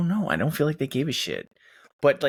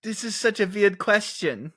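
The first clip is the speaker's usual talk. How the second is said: higher-pitched put-on German accent; mock German accent; 4 semitones higher than usual. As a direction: say it as an affronted comic German. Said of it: "his accent was good".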